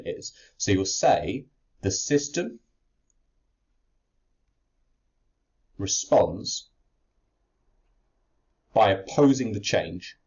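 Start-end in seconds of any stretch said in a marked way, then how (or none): 1.8-10.2 slow dictation. Shown as a demonstration. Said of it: "this is your stock line".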